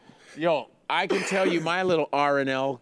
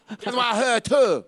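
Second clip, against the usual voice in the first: higher, laughing attempt at an Asian accent; mock Asian accent; 7 semitones higher, 3 dB louder than usual. Imitating the friend's line in a mock Asian accent. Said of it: "You're doing a racist Asian accent".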